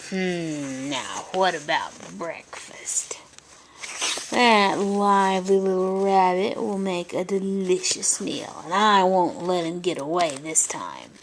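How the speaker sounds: a hint of a sly villain plotting breakfast; lightly voiced mean weasel; growling weasel. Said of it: "growled and said to himself".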